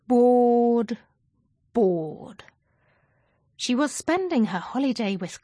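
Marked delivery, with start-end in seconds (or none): 0.1-1.0 a louder, exasperated bored; fed-up bored. A narrator's reading. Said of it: "Zoe was bored". 1.7-2.4 Bored. said low, sinking and deflated; sulky bored. A narrator's reading. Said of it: "Zoe was bored".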